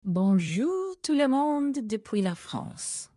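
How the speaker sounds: slow, savoured French greeting; really owning it. Pretend. AI assistant told it's loving life in France, owning it. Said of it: "really own it".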